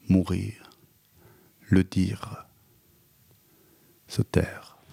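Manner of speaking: trailing off into a whisper; fading whisper. Acted. Poet closing his poem, fading into a whisper. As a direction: let the last words drop to a whisper.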